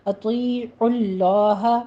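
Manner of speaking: slow اطیعوا اللہ with a full heavy Allah; teacher models اطیعوا اللہ; tajweed demo. Shown as a demonstration. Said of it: "لفظ جلالہ کو پر پڑھنا ہے".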